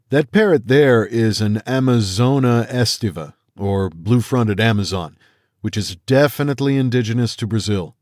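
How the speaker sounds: calm expert explaining; a hint of a lecturer; lightly voiced Hu. Hu identifies the parrot.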